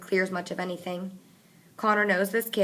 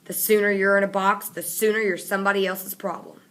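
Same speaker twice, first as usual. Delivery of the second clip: sneering; 5 dB louder than usual. Acted. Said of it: "sneers at him".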